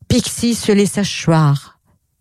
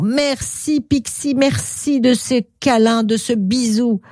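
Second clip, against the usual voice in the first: happy, higher-pitched gratitude; Croque-en-Bouche; 5 semitones higher than usual. Acted. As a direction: give thanks with contented delight. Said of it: "était tellement content". (remerciement tout content, voix plus aiguë)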